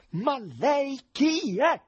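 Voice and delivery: urlo acutissimo, lento, forte; grido furioso. Acted. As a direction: esplodi scandendo ogni parola. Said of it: "completamente infuriato ... gridò". (il presidente infuriato grida all'intruso, lento e forte)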